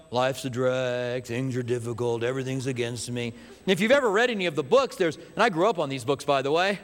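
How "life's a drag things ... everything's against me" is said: lightly hammed-up Eeyore moaning. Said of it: "there's Eeyore's".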